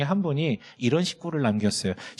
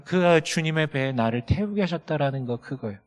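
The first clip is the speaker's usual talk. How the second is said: ordinary talk, nothing marked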